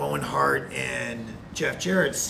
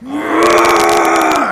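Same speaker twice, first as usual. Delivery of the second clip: loud, high furious yell; angry scream; 12 semitones higher, 15 dB louder than usual. Retold or imitated. Wrestler learning Owen pranked him, furious scream. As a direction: let out a scream of rage. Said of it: "I got so mad".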